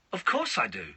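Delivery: lightly imitated child dodging yes; a hint of his kid's stock answer; mildly put-on evasive reply; son's cheating voice. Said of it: "He only says it in that voice".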